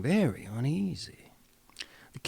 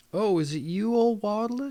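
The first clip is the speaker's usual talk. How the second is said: higher, lightly voiced princess, a touch scornful; 7 semitones higher, 3 dB louder than usual. Princess greeting the frog, lightly voiced and higher. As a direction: raise the pitch for a lightly done royal girl. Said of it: "she said".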